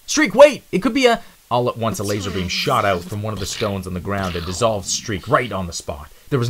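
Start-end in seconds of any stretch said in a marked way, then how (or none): 0.1-1.2 loud, high warning shout; urgent warning call. Acted. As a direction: stop him before he dies.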